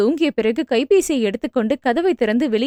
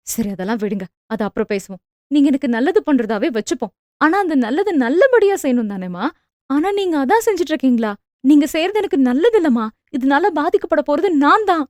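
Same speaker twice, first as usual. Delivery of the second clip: angry. Acted. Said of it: "என்றாள் கோபமாக".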